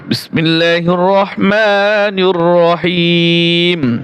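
slow, drawn-out chanted recitation; Quran recitation. Shown as a demonstration. Teacher opens the Quran lesson for students, slow chanted recitation. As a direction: recite it slowly with tajweed.

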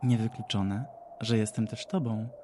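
a lightly voiced mad woman, taunting; lightly voiced madwoman musing. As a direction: tease her with riddles, half-mad.

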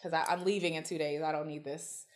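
1 weary dismissal. Retold or imitated. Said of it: "she was just like".

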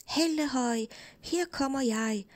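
cheerful mild holler; shouting. Acted. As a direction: announce yourself from far off. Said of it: "råbte Klods Hans".

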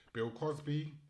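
reading article aloud. Real, not acted. Reads news article aloud.

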